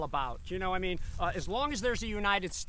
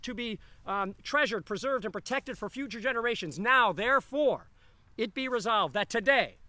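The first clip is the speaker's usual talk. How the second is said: put-on old-timey voice. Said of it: "read this in an old-timey voice".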